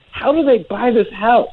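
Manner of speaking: baffled wonder. Retold or imitated. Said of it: "being like".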